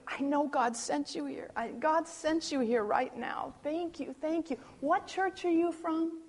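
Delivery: lightly imitated softened gratitude; melted. Grieving woman thanking visitors who prayed with her, gently melted. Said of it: "And she just melted".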